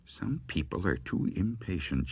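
soft irritated mutter. A narrator's reading. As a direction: grumble it to yourself, barely aloud. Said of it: "she muttered".

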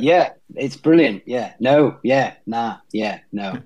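lightly imitated New Zealand accent; a touch of Kiwi on a run of yeahs and nahs. Shown as a demonstration. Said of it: "And they'll things like".

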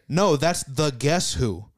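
slow, know-it-all imitation of a friend; slow smug correction. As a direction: drag it out like you're sure you're right. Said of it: "he said".

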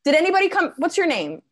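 high, singsong questioning; talking to a toddler. Acted. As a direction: quiz a heckler like a small child. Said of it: "talk to them the way somebody might talk to a toddler".

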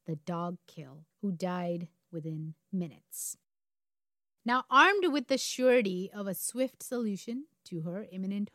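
deliberate storyteller with dramatic pauses; story narration. A narrator's reading. Host leading up to the murder, story narration. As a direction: build suspense, setting key words apart.

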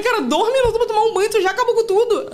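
high, loud laughing scold. Retold or imitated. Mom retelling scolding son over wasted creams. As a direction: tell him off while cracking up.

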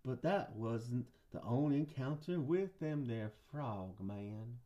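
Southern storyteller winding down; Southern guy. Pretend. Host teases another frog encounter, Southern accent. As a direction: drop off at the end in a Southern accent. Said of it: "I'll do a Southern guy".

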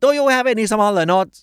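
high, very slow English request; asking for smaller notes. Acted. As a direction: stretch each word out up high like a hesitant tourist. Customer asks cashier for small notes. (ขอแบงค์ย่อยเสียงสูงช้ามาก)

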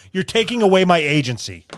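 mild mock of a pretentious phrase; mocking quote. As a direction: parrot it with scorn. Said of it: "Who says".

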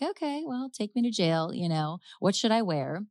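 breezy shrug of a delivery; nonchalant. Acted. Suspect shrugging off her arrest to police, nonchalant. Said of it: "sort of nonchalant".

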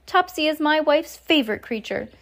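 high-pitched fretful protest; worried husband, voice gone high; cried. A narrator's reading. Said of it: "cried Mister Jenkins".

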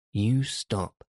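mild narrated near-shout; almost shouted. A narrator's reading. Mary to the screaming boy, almost shouting. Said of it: "she almost shouted".

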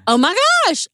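high, loud squeal of disbelief; starstruck gasp. Retold or imitated. Fan realizing the caller is really a famous singer, squealing in disbelief.

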